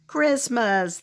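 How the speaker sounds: a drawn-out, falling "Christmas"; a hint of a whiny wail; mild wail. Trolls wailing for Christmas, mildly whiny. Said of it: "they wailed".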